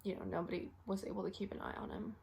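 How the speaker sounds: soft, hurried admission; subdued regret. Acted. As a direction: let it out quietly, reluctantly. Acted telling of patient's unwatched death.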